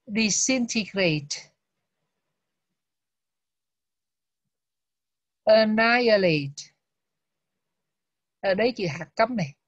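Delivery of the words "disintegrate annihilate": disintegrate and annihilate slowly, each syllable clear; teacher drilling the new words slowly; slow model reading. Shown as a demonstration. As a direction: read each word out slowly for students to repeat. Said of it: "bây giờ mình đọc lại mấy từ này".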